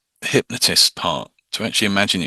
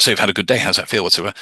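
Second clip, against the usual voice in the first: fast talk; much faster than usual. Shown as a demonstration. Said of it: "You start".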